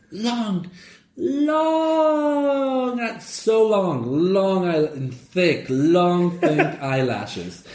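high, drawn-out swooning voice on the eyelashes; gay elephant. Retold or imitated. Third elephant in the joke dreaming of eyelashes, high and drawn out. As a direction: stretch each long up high, dreamy and camp. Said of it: "the third elephant goes like".

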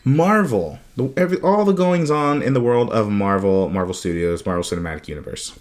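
measured radio-host announcement. Real, not acted. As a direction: slide lightly into radio-host mode. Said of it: "talk like a radio host again".

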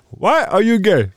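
high, quoting the viral video. Retold or imitated. Friend quotes the viral video, high imitation. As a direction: mimic the guy from the clip. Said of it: "remember that fucking video".

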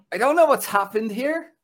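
high, laughing, bewildered; laughing bewilderment. Retold or imitated. Telling the co-hosts about the bar, high and laughing. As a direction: laugh nervously as you look around. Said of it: "I'm looking around going".

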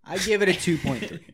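half-hearted Trump voice. Acted. Asked by a friend to rate in Trump accent, light impression. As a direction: give the score lightly as Trump. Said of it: "You have to do it in your Trump accent".

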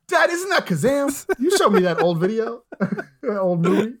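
put-on high kid voice, breaking into laughter. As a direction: play a giggling little kid. Kid asking dad, laughing.

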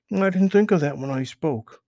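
high, loud, eager rabbit question; curious Peter Rabbit. Acted. Peter asks Mister Toad, high and eager. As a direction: pitch up high and push it out eagerly.

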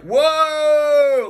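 high whooping whoa; a falling-rush whoa; mock thrill. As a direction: squeal it like the stomach drops. Mimics weightless gravity moment.

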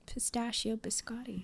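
breathy whisper. Real, not acted. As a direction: whisper it like a treat. Savoring the treat name.

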